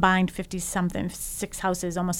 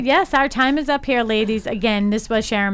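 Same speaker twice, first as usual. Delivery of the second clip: cheerful sign-off; 4 semitones higher, 4 dB louder than usual. Real, not acted. Closing the show.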